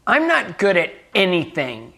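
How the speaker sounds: imitating a girl's bitter self-judgment, mildly emphatic; angry, bitter. Little girl confessing to a visiting speaker, mildly bitter. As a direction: retell her blunt, frustrated verdict on herself. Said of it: "She said it just like that".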